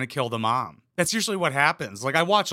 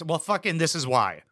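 ordinary talk

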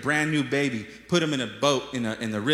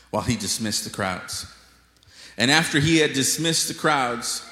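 measured, declamatory Bible reading; scripture reading. A narrator's reading. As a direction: read the passage out to a congregation. Reads scripture aloud.

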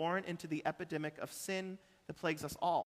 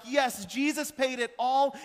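mock churchy fervor; 7 semitones higher, 6 dB louder, slower than usual. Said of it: "we come to church and we're like".

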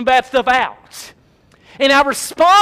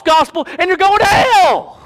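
preacher's shout; 5 semitones higher than usual. Acted. Preacher warning of hell.

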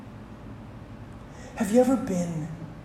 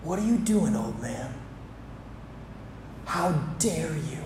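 put-on older brother's outburst. The older brother confronting the father over the party, indignant. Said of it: "But the older brother says".

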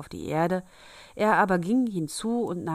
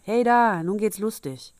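loud, higher cheer; gleeful call; 4 semitones higher, 6 dB louder than usual. A narrator's reading. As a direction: call out merrily to join the fun. Boy joins the spooky game gleefully. (fröhlicher, lauter Ausruf)

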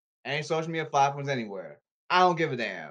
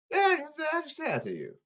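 fast mock squeal; 12 semitones higher, much faster than usual. Fast high mocking.

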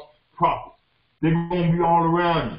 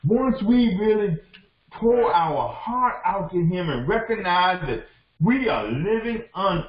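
tearful preaching climax; 4 semitones higher than usual. Acted.

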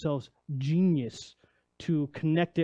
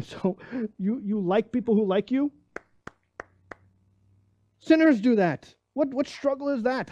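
incredulous challenge; 5 semitones higher than usual. Acted. Preaching Jesus's challenge, raised voice.

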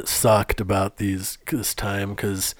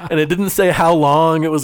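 laughing; 5 semitones higher, 4 dB louder than usual. Real, not acted. Laughing while telling the story.

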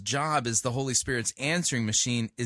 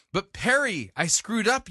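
whiny mock plea; 6 semitones higher, 4 dB louder than usual. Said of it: "you might say".

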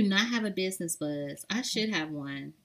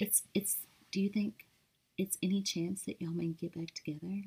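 hushed, hesitant retold question; imitated whisper; 8 dB quieter than usual. Retelling his question about getting back together, whispered. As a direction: drop your voice to imitate his timid whisper. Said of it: "hold on, let me whisper".

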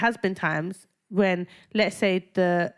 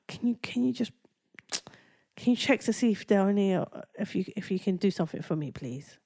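polite plea; 3 dB quieter than usual. Shown as a demonstration. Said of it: "the way you're supposed to do it is".

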